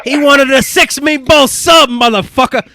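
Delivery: high, slow, hammed-up Italian-American voice; mock Italian accent. Host jokes back at a doubting guest, mock Italian accent. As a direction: punch it out like an irate Italian mobster. Host defends quoted line in character.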